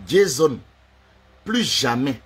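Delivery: loud call of the name, falling. Acted. Man addressing his rival, loud call.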